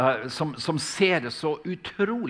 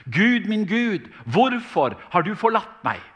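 anguished cry; 6 semitones higher, 5 dB louder than usual. A narrator's reading. Jesus on the cross crying out to God in anguish. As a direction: cry out to God in mortal dread. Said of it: "Han roper i dødsangst".

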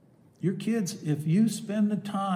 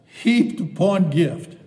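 "heaped upon gift" louder and slower, leaning on heaped; delighted emphasis; 8 dB louder, slower than usual. Real, not acted. Preacher savoring a favorite verse, lightly emphatic. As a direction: savor the phrase. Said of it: "I like this".

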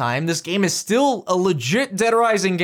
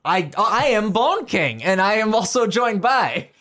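announcer voice; slower than usual. Shown as a demonstration. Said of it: "fighting game announcer-esque".

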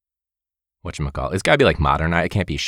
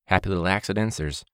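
Bob Ross impression. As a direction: gently reassure like a TV painting teacher. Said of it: "the Bob Ross mentality".

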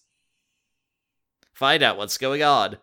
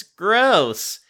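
grossed out; 9 semitones higher, 7 dB louder than usual. Acted. Katie reacts to alien.

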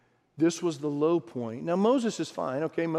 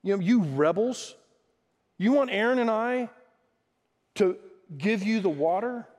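prideful Moses; 4 semitones higher than usual. Acted. Moses asking the rebels if they want water from him, prideful. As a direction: act out mild self-important indignation. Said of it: "I think there was some pride".

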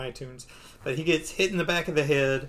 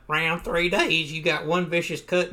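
changed nerdy guy voice; 3 semitones higher than usual. Acted. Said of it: "now I'm doing, like, a whole different voice".

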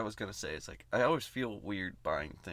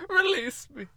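high, louder cartoon bear plea; Winnie the Pooh; 6 dB louder, slower than usual. Bear begging to be released, high impression voice. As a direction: plead in a high storybook bear voice. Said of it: "I'm gonna do my poo impression".

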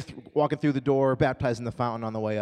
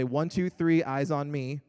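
singsong call to the class; kindergarten teacher voice; 3 semitones higher, 4 dB louder, slower than usual. Shown as a demonstration. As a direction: call the kids to attention. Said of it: "what I do down there is I'll say".

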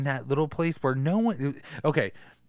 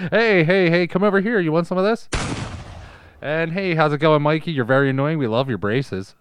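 mock villain; 4 semitones higher, 9 dB louder than usual. Villain taunting kids.

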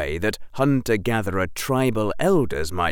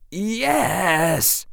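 weary; 10 semitones higher than usual. Acted. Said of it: "Harry said wearily".

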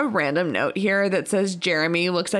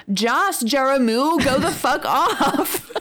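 reading through laughter; 5 semitones higher, slower than usual. Real, not acted. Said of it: "hilarious 'cause it says".

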